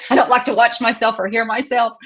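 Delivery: embarrassed laugh through the words. Real, not acted. Embarrassed about hearing herself.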